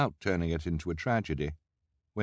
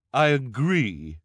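high, loud, drawn-out agreement; emphatic villainess; 6 semitones higher, 6 dB louder, slower than usual. A narrator's reading. Esme agreeing with the crowd, loud drawn-out villainess voice. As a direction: stretch it out with relish.

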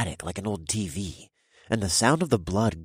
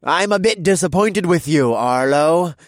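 louder, higher, commanding gravitas; grave leader; 10 semitones higher, 9 dB louder than usual. Acted. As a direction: speak with gravitas. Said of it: "one with much more gravitas".

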